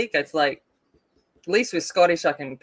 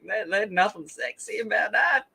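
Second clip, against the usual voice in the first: broad North Queensland bogan accent, slightly raised; full bogan drawl; 4 semitones higher than usual. Shown as a demonstration. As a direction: put on a bogan Australian drawl. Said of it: "my full North Queenslander Bogan drawl".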